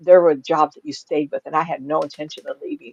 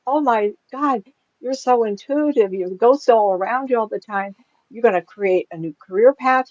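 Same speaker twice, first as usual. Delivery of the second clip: higher-pitched, gushing reader; imitated excited rush; 5 semitones higher, 3 dB louder than usual. Psychic reader tells a client her gift, imitated excitement. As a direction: imitate someone bursting with revelations. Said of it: "took off like a blizzard".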